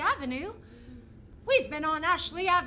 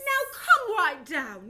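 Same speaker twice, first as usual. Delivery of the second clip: loud, slow call upstairs; a mother calling her daughter back down; 6 dB louder, slower than usual. Acted. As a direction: call up the stairs to the child.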